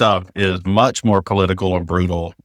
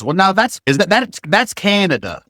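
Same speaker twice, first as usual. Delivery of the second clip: put-on high-pitched insistent old relative; imitated grandmother-in-law; 9 semitones higher than usual. Grandmother-in-law disputing that Vermont exists, high and insistent. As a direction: mimic a relative who won't believe it. Voicing grandmother-in-law's disbelief.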